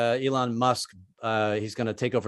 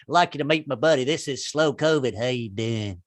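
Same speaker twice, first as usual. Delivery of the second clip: Southern drawl. Retold or imitated. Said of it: "Sounds like a Southern guy".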